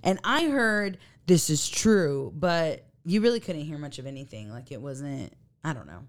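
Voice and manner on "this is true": slow imitation of a raspy ghost voice; deep raspy voice. Podcaster imitating a ghostly recording, deep and raspy. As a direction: draw it out as a low, raspy EVP. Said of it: "a deep, raspy voice".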